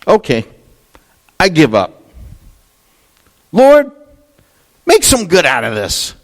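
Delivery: high, strained cry of giving up; surrendering prayer. Retold or imitated. Preacher reliving his own surrender to God, high strained cry. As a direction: throw up your hands to God, voice breaking high. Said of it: "I got to a place where I said".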